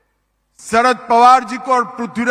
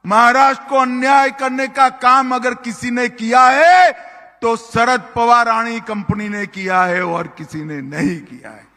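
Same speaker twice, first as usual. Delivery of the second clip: ordinary talk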